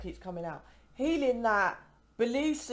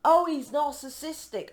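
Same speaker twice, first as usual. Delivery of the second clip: mocking; 5 semitones higher, 3 dB louder than usual. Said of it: "Why aren't twin flames together?".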